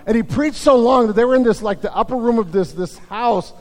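normal talking voice

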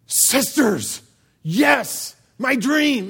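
hammed-up guy daydreaming; mock dreamy glee. Guys reading, dreamy.

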